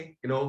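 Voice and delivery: किनो said the wrong way, with the silent k spoken; wrong reading. Shown as a demonstration. Teacher showing pupils the wrong reading किनो of know. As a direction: sound out the k in किनो as if it were read. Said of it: "किनो तो नहीं बोलेंगे".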